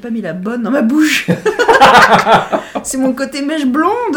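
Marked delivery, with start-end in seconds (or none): 1.3-2.8 loud high laugh. Real, not acted. Laughing at her own blunder.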